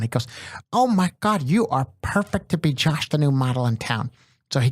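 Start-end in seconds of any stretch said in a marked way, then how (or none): 0.7-4.1 high, gushing producer impression; Bob Wellborn. Older producer casting the young actor as Josh, imitated gushing voice. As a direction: swoon over your new discovery, starting high. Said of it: "He talks like this".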